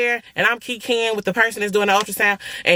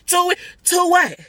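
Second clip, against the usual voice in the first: high shouted "two what?"; shocked shout; 10 semitones higher than usual. Retold or imitated. Asking the ultrasound tech about twins, shocked shout. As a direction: yell it out in disbelief.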